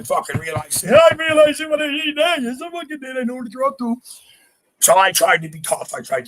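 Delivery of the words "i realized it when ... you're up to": high, laughing realization; pitched-up laughing confession. Real, not acted. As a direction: laugh through the admission.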